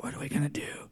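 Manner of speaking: hushed huddle whisper. Acted. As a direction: whisper it so nobody else can hear. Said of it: "they're whispering so nobody else can hear".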